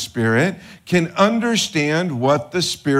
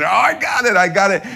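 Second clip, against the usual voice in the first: higher and louder, thrilled to find the toy; a child digging in the cereal box; excited kid; 5 semitones higher, 5 dB louder, faster than usual. Retold or imitated. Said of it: "you're just, like, digging".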